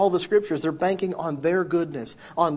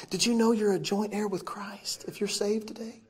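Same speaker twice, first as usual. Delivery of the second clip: whispered aside; 3 semitones higher, 4 dB quieter than usual. Real, not acted. Preacher aside to congregation.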